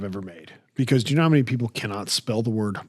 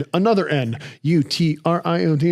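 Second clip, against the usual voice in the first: dictating; 6 semitones higher, 4 dB louder, much faster than usual. Retold or imitated. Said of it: "and I have to go".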